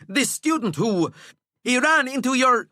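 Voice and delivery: breathless prefect forcing words out; winded and panting. Acted. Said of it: "stop your panting".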